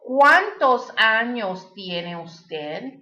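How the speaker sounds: slow, careful Spanish with a rising end; slow teacher's model question in Spanish. Shown as a demonstration. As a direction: say it slowly so learners can copy. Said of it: "That means".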